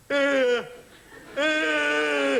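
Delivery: long loud stretched yawn sound; hammed-up open-mouthed yawn; loud mock yawn.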